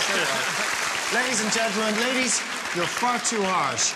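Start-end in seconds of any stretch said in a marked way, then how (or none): 0.0-1.2 "Steady on" stretched out very slowly, rising at the end; slow teasing "Steady on" with a lift at the end; slow drawn-out steady on. Real, not acted. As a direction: drag out "Steady on" to calm him down. Host repeats, drawn out.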